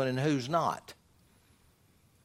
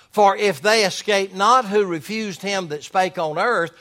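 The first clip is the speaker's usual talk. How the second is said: raised, declaiming Bible reading; emphatic scripture reading; 5 semitones higher, 6 dB louder than usual. Acted. Preacher reads Hebrews to the church, emphatic scripture reading. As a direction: read scripture out firmly to the congregation.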